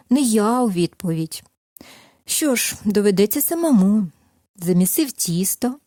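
gentle storyteller voice, lively at the quotes; reading a fairy tale to children. Acted. Narrator reads the tale to toddlers, gentle storytelling. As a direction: tell it like a bedtime tale for little ones.

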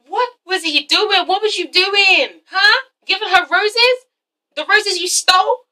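slow, high demanding questions; indignant questioning. Acted. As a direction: press him like an annoyed interrogator. Outraged repeated questioning.

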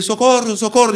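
high-pitched mock Spanish "socorro"; Spanish-accented cry for help. Sparring Spaniard begging the fighter for help, high mock Spanish cry. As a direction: imitate a panicking Spaniard, voice way up high. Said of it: "em espanhol".

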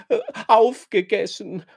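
höher und lauter, unter Schluchzen herausgepresst; schluchzend. A narrator's reading. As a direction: verzweifelt hervorschluchzen. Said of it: "schluchzt sie". (schluchzend, den Tränen nah)

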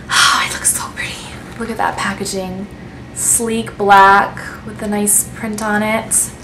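hushed, breathy admiration; whispering over pretty packaging; awed whisper. Real, not acted. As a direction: whisper it like a treasure. Admiring the lipstick packaging closely.

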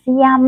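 SIAM with a gliding regional "ia" vowel; imitating a regional slurred SIAM; ngọng vùng miền. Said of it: "kiểu là tiếng Việt hơi bị ngọng". (SIAM hơi ngọng kiểu vùng miền)

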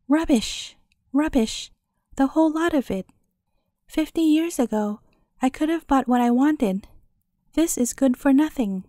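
lightly voiced scornful old hag; muttering old crone. Old woman scorns the cobbler's wife's fine herbs, a mild muttering crone. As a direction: sneer it out like a sour old crone. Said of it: "the old woman muttered".

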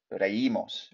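"Reímos" with the stress on í; "Reímos" with a separate, stressed í; accented í pronounced clearly. Shown as a demonstration. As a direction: sound out re-Í-mos, í distinct. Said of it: "So remember the accent".

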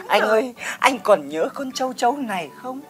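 hammed-up nostalgia. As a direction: reminisce tenderly to an old love, overacted. Wistfully recalls past love, hammed up.

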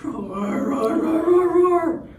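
rumble, then swell like a dinosaur; building roar. Acted. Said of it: "gonna be lots of roaring".

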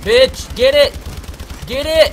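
high loud yell. Real, not acted. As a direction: shout it at the screen. Yelling at game.

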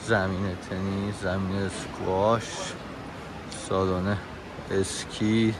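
soft, restrained narrator with long pauses; voice-over narration. Acted. Narrator listing the mall's history and facilities, soft and measured. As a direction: read the facts quietly, phrase by phrase. Reads facts about the mall.

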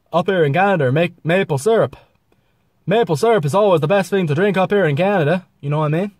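lively mock Canadian accent; lightly hammed-up Canadian accent. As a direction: put on a folksy Canadian accent. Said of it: "Then you got to Canada".

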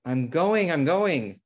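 startled hurry-up shout; flustered yelp. Acted. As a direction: back off from the barking dog. Fleeing barking dog.

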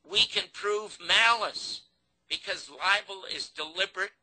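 high, slow, emphatic appeal; urgent pleading. Retold or imitated. Producer begging Garrison to sue the network, urgent retold plea. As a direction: implore him, drawing out the key words.

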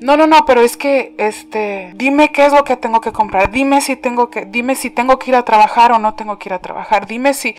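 anxious pestering. Retold or imitated. Believer pestering God.

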